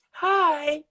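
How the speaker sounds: high-pitched mimicked greeting; really high voice. Imitating the movie character's greeting, really high voice. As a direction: squeak it out high, mimicking him. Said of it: "he had that really high voice".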